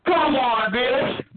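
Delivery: real, relentless heated rant; angry yelling. Real, not acted. Man taunting a caller about the trailer park, angry yelling. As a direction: goad them with yelled demands. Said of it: "Why are you yelling like that".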